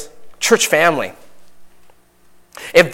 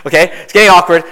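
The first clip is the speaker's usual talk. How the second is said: louder amused repeat; 2 semitones higher, 6 dB louder, faster than usual. Real, not acted. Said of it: "I see some girls in the back just chuckling".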